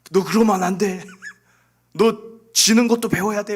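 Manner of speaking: loud retold telling-off with a laugh in it; scolding father. Father to seven-year-old upset over Blue Marble, loud scolding. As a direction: act out a worked-up parent lecturing.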